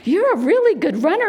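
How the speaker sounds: put-on high-pitched encouragement for a little kid; praising a toddler. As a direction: gush to a small child, retold. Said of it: "I said".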